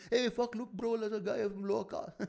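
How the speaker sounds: high, excited mock jeer with a laugh; hammed-up hypocrite calling out to a pal; hypocritical audience member. Hypocrite pointing someone out to his bro, high mock jeering. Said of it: "come to the bar after and say".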